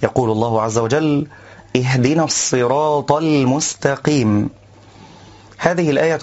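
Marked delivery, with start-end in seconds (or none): 1.8-4.5 slow measured tajweed recitation; Quran recitation. Shown as a demonstration. Teacher reciting the verse in class, slow tajweed.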